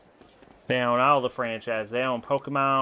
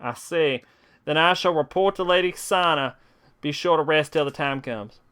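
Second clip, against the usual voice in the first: character voice; 5 semitones higher than usual. Acted. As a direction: read the game line as the character. Reads game dialogue aloud.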